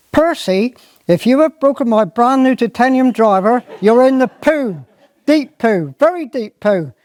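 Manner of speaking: high stern squire warning. Acted. Squire warns gamekeeper about his golf club, stern. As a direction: threaten him, lord of the manor.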